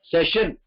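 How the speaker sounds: "செஷன்" with a clear sh; correct English session. Shown as a demonstration. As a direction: say "செஷன்" se-shun. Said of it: "செஷன் கிடையாது".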